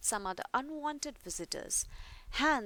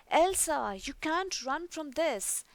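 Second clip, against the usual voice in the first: menacing call; 5 semitones higher, 4 dB louder than usual. Acted. Hans confronting Elsa.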